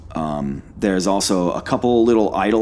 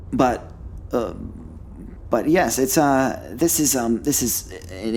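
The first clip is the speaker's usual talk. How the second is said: lightly voiced fussy scholar; a hint of a nervous academic. Player voices scholarly character.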